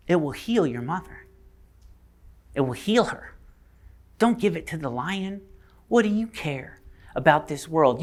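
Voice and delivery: softly coaxing temptation. Acted. Witch tempting a boy to betray the lion, softly coaxing.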